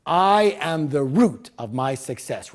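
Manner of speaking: slow, loud affirmation with "I" stressed; group declaration. Shown as a demonstration. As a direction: declare it firmly for the crowd. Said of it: "let's do this declaration together".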